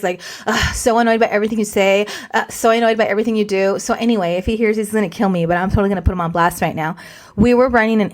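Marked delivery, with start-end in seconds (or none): 0.5-3.8 put-on eye-rolling teen. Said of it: "giving you the rolled eyes".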